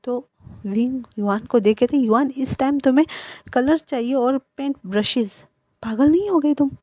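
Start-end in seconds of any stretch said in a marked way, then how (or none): 2.0-6.7 sharp, rising scold, higher and louder; a mother snapping at her son. Acted. Mother scolding son for shopping so late, angry raised voice.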